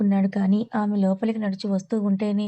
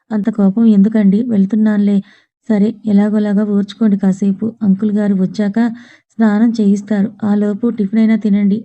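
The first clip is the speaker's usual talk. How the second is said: louder, coaxing him over his anger; raised voice; 10 dB louder than usual. Acted. Tripada coaxing angry Krish to eat, raised voice. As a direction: talk him down loudly.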